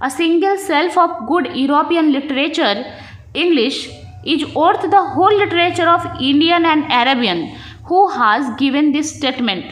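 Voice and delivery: slow, deliberate question read; measured exam-question dictation; reading a test question. Acted. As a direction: spell the question out slowly for the class. Reads exam question aloud.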